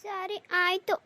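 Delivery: grudging, sulky agreement. Acted. Daughter agreeing to the train trip, sulky and grudging. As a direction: give in with a pout. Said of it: "ಮಕ್ಕ ಗಂಟಿಕೊಂಡು ಮಾತಾಡ್ತಿದ್ದಿ".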